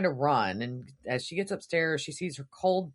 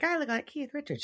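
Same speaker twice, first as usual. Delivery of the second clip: quoting Vince; 10 semitones higher, 3 dB quieter, faster than usual. Retold or imitated. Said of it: "He's like".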